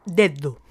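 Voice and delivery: "Dedo" with the second d a hard dental stop like the first; both Ds as stops. Shown as a demonstration. Teacher showing students both Ds alike, hard stop pronunciation. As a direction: say "Dedo" with two hard, fully closed d sounds. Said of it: "pronunciamos ahora ambas Ds con el mismo sonido que el de la primera".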